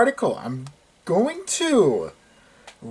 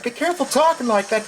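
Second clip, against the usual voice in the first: higher and fast, stress on talking; higher, fast repeat; 8 semitones higher, faster than usual. Real, not acted. Repeating the warning to his friend, higher and fast.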